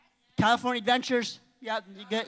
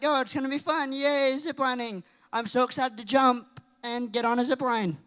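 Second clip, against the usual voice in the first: retold eagerness; 3 semitones higher than usual. Retells own eagerness before ziplining.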